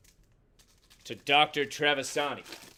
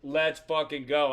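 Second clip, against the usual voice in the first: pumped cheer; 4 dB louder than usual. Retold or imitated. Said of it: "That's why I was so pumped".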